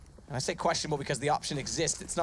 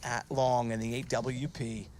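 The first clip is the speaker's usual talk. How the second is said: excited; 5 semitones higher than usual. Real, not acted. Round climax, caster builds hype.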